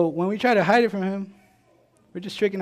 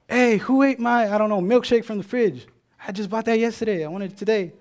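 annoyed sibling; 5 semitones higher, 3 dB louder than usual. Retold or imitated. To a sibling about the missing milkshake, mildly annoyed. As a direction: play the wronged sibling, a touch put out.

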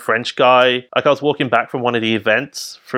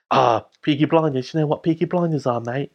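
quick, chatty imitation of Cockney; Cockney accent; 3 semitones higher than usual. Drunk French guy quizzes him on the show, Cockney accent. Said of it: "the best, like, Cockney accent".

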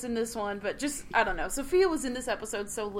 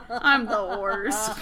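Britta; 3 semitones lower, much slower than usual. Retold or imitated. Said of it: "I'm Britta from Community".

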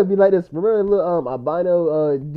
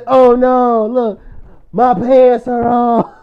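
mock dismayed porn actor; 3 semitones higher, 7 dB louder, much slower than usual. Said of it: "then you see the new one and say".

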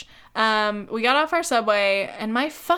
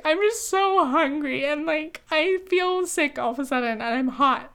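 retold fit; 4 semitones higher than usual. Girlfriend retells complaining to boyfriend while hungry, in a mock fit. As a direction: drag out the complaint like a small tantrum. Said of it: "started to throw a fit".

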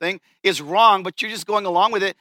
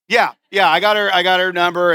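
louder, imitating a buddy justifying himself; mock defensive; 6 dB louder than usual. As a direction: brush off the question loudly. Buddy brushes off being questioned.

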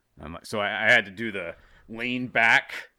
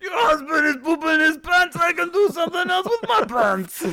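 much higher, loud caricature Italian; leering cartoon Italian come-on; mock Italian waiter; 5 dB louder than usual. Bit of Italian waiter voices.

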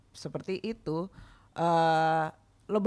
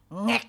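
higher, drawn-out "ngek"; imitated grab noise; 5 semitones higher, 5 dB louder than usual. Guest showing co-hosts how they were grabbed, imitated squeeze sound. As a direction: mimic a squeeze with a slow little noise.

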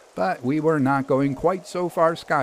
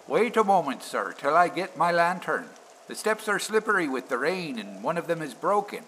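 lightly voiced signalman, higher and softer; a hint of a helpful signalman calling from the door; 6 semitones higher, 4 dB quieter than usual. A narrator's reading.

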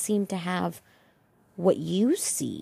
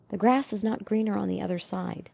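a forceful hushed yell; whisper yelling; 3 dB quieter than usual. Shown as a demonstration. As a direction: yell it under your breath. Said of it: "I'm gonna whisper yell".

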